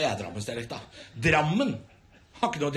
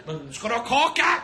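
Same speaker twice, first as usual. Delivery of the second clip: threatening offer; 7 semitones higher than usual. Retold or imitated. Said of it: "høres ut som en trussel".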